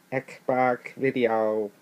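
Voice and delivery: slow, drawn-out nerdy voice; nerd voice. Pretend. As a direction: stretch it like a nerd. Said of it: "that's my nerd voice".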